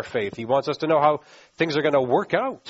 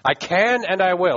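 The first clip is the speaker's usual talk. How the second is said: higher, emphatic promise; absolute certainty; 4 semitones higher, 4 dB louder than usual. Acted. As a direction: declare it firmly, no wavering. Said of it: "there's no doubt. It's as secure".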